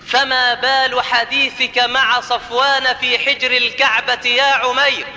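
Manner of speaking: slow, measured declamation of the Prophet's words; solemn oratory. Acted. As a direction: recite it as a deliberate, ringing confrontation. (إلقاء خطابي مهيب ومتمهل)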